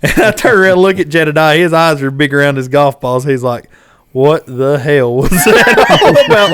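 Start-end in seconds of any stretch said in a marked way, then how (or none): 4.1-6.5 slow, drawn-out astonishment breaking into laughter; stunned disbelief. Retold or imitated. Wide-eyed buddy after the fish fight, stunned and slow. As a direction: imitate a dumbfounded buddy, stretching the words out.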